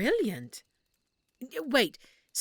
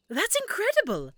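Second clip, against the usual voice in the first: impressed; 9 semitones higher, 4 dB louder than usual. Acted. Hearing the rescue plan succeeded.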